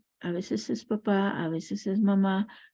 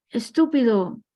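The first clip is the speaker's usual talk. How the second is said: loud angry yell of an insult; the father hurls the word out; mock shout; 3 semitones higher, 6 dB louder than usual. Father shouts another insult into the valley, loud mock yell. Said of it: "el papá grita".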